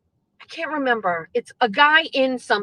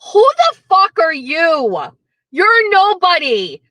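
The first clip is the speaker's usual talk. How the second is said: mock snarl; 5 semitones higher, 5 dB louder, slower than usual.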